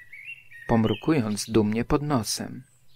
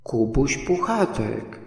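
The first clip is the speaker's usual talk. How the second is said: even more surprised. A narrator's reading. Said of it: "jeszcze bardziej zdziwiony".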